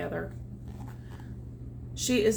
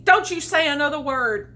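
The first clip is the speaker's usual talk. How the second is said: crowed; 4 semitones higher, 6 dB louder than usual. Acted. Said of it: "crowed the rooster".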